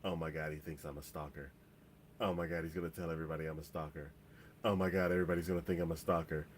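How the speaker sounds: understated rapid panic, kept low; spiralling worry, fast and under the voice; freaking out. Retold or imitated. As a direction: retell a racing, panicked inner monologue. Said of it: "her head's just freaking out".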